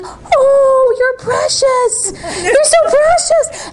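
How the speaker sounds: high, slow, tearful and tender; moved to tears. Retold or imitated. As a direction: choke up with love as you say it. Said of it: "And I'm like".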